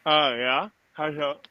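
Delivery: talking around a cigar in mouth. Real, not acted. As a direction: mouth full of cigar, words muffled. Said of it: "Sorry, I had a cigar in my mouth".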